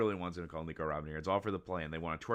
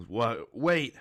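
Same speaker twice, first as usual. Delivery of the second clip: loud, pitched-up interjection; startled protest; 4 semitones higher, 9 dB louder than usual. Acted. Sanji interrupts Black Maria's punching, loud and startled. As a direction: burst out to halt it. Acting out beaten man cutting in.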